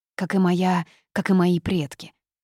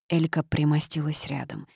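ordinary delivery, nothing marked

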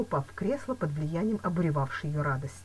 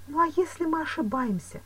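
higher-pitched, hesitant question; worried doubt; 12 semitones higher, 3 dB louder than usual. A narrator's reading. Woman doubting the accusation, worried. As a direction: raise the doubt anxiously. She doubts reporting the stranger.

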